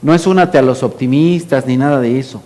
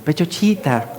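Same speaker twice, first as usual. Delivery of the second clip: soft, doting pet name; affectionate; 8 dB quieter than usual. Shown as a demonstration. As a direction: call your mother tenderly. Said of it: "Yo así le digo a mi mamá".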